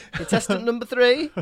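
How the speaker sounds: host voice, lightly put on; a hint of game show host; Cilla Black. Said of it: "I was being Cilla Black".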